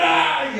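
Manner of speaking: high mock cry, brief; imitated child's wail. Preacher imitating his little daughter crying for something, mock wail. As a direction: mimic a toddler's tantrum wail. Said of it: "Llorar, ¿verdad?".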